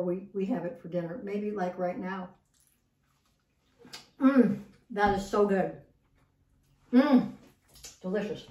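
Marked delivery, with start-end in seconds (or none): 4.2-8.5 chewing while talking; mouth full. Real, not acted. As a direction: talk around a bite of food. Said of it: "I'm not talking with my mouth full".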